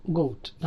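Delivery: గౌట్ as one word, "go-oot"; diphthong glide. Shown as a demonstration. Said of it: "అనాలి".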